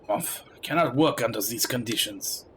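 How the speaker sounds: exasperated Frenchman; French accent. Acted. Frenchman giving up on his companions, exasperated French accent. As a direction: grumble with a put-on French accent. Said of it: "as if he's speaking with a French accent".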